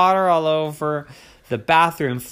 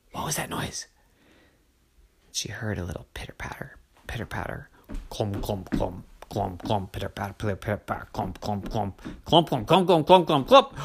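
hushed suspense whisper; whisper, creeping up in volume; 5 semitones lower, 3 dB quieter than usual. A narrator's reading. Hears footsteps approaching.

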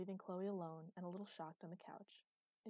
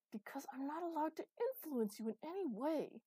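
higher, louder angry retort; hissed retort; 9 semitones higher, 6 dB louder than usual. A narrator's reading. Master answering Chloe's accusations, hissed back. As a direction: hit back sharply, pitch up. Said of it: "Master hissed back".

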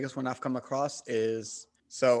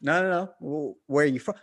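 pushy questioner; 3 semitones higher, 3 dB louder than usual. Retold or imitated.

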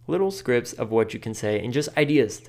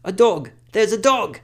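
much higher and louder squeal at a dog; excited dog voice; 10 semitones higher, 7 dB louder than usual. Retold or imitated. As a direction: squeal over spotting a dog. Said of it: "That's what I usually say to them in that voice".

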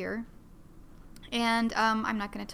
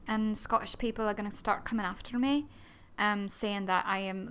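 ordinary delivery

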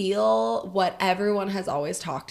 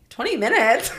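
incredulous; 4 semitones higher, 6 dB louder than usual. Retold or imitated. Retelling her incredulous reply.

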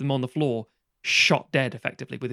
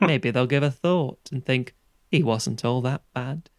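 put-on slow, wistful old man's monologue; lightly played doleful old man, slowing to the end; a touch of stage-play pathos; Alan Bennett old man. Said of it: "an Alan Bennett sort of play".

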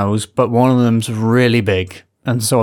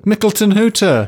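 high silly voice; 9 semitones higher than usual. Pretend. Echoing the name.

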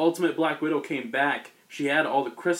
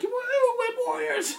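much higher, slow triumphant whoop; hammed-up war cry; slower than usual. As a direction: greet the troops like a goofy hero. Cartoon Spider-Men burst in cheering.

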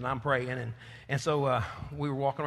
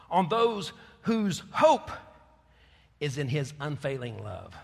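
emphatic; slower than usual. Acted. Preacher stressing psalm verse.

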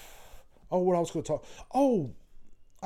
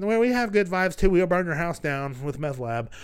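mock small-town local; 4 semitones higher than usual. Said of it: "Everybody's like".

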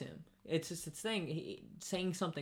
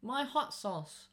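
mock whiny customer; 6 semitones higher, much slower than usual. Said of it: "He goes".

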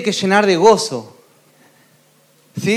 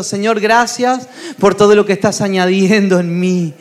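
led prayer. Acted. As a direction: pray aloud, line by line, for the crowd to echo. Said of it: "decí con esto".

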